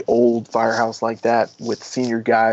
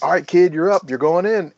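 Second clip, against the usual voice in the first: calm order; 6 semitones higher, 3 dB louder than usual. Retold or imitated. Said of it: "And he's like".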